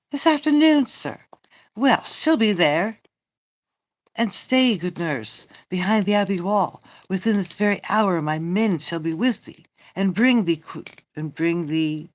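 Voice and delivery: emphatic, declaimed stage dialogue; theatrical Shakespeare reading. Acted. Reading Romeo and the nurse aloud, theatrical. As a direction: play it out like verse on stage.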